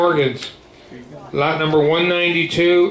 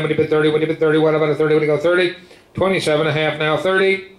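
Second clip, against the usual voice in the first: rapid rolling bid chant; auctioneer; faster than usual. Real, not acted. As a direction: rattle off the bids like an auctioneer.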